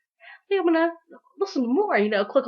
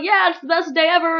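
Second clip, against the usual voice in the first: gushing fan; 5 semitones higher, 4 dB louder than usual. Retold or imitated. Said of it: "it's like".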